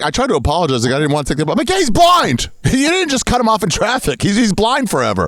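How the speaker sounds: high, hammed-up self-pitying tough guy; mocking Wahlberg voice. Mark Wahlberg whining about the guy he blinded, high and hammy. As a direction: whine it like a sheepish tough guy. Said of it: "I like how he's like".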